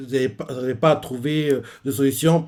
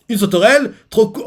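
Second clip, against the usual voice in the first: much higher, louder thrilled squeal; amazed delight; 8 semitones higher, 7 dB louder than usual. Retold or imitated. Luffy thrilled at the grasshopper bike, high squeal. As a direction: gush like a kid seeing a bug. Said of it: "il adore les insectes".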